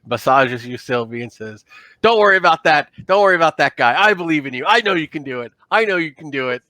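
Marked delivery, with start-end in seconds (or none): 2.0-6.6 reassuring pep talk. Acted. The Dralsite massaging Sylvie before docking, reassuring. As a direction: rub their shoulders and talk them up. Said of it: "the Dralsite comes behind you and puts his two big paws".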